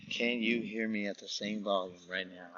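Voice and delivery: soft hushed test whisper. Real, not acted. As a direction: whisper it close to the mic. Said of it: "'cause I'm whispering".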